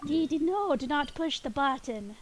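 half-hearted cartoon brother voice; Dexter impression. Streamer as Dexter warning Dee Dee, weak imitation. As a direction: lightly mimic a scolding brother, slowing down. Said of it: "not very good at doing Dexter's voice".

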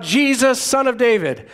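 mild imitated call, drawn out at the end; understated reenacted plea, slowing on the mercy line; retold calling out. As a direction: call out a plea without really shouting, stretching the last words. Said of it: "he called out".

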